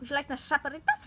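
quick mock Spanish offer; lightly put-on Spanish; attempted Spanish accent. Shown as a demonstration. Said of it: "Spanish accent".

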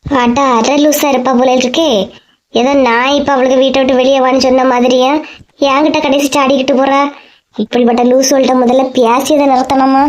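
low, muttered grumbling to herself; a hint of an offended old woman complaining; grumbling neighbour. Woman grumbling after friend leaves.

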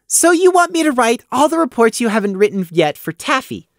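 high voice, summing it up flatly; deadpan recap of what he's been asked; flat summary. Acted. Prey flatly sums up Gloom's order, high and dry. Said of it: "Prey summarized flatly".

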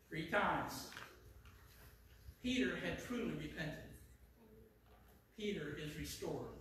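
solemn hush. Real, not acted. Preacher declaring Peter restored, hushed and solemn. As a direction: let it settle quietly between phrases.

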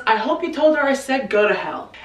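bad mood. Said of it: "Charles is in a wicked bad mood".

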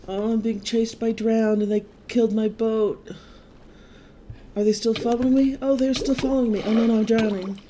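fast panicked, high and loud; being chased. Real, not acted. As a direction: flee in a rising panic. Chased by drowned while swimming.

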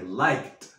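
"liked" said as one syllable, final d as t; liked as likt. Shown as a demonstration. Teacher shows how students should say liked. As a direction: swallow the e, end "liked" on a t. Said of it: "aquí el liked nos comemos la E".

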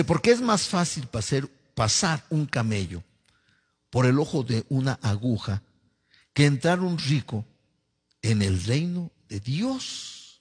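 measured scripture reading, phrase by phrase; lectura bíblica. Acted. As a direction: read the verse out, stretching the final phrase. Reads scripture aloud. (lectura pausada de la Biblia)

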